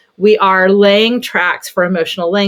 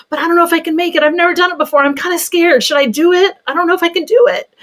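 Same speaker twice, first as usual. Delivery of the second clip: much higher, timid worried figure; scared toy voice; 8 semitones higher, faster than usual. Pretend. Mom voicing a nervous toy for her son, much higher and timid. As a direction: play a little scared action figure. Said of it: "I basically give this character feelings".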